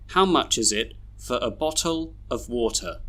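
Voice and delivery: "for a" as fuh-ruh, "of" as uv; schwa weak forms. Shown as a demonstration. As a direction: weaken "for", "a", "of" to schwa. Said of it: "read all these sentences with their schwas".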